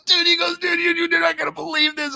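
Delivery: imitating a worked-up buddy, very high; high-pitched, can't-believe-it delivery; excited yelling. Buddy phoning with unbelievable news, excited. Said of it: "He's, like, yelling at me".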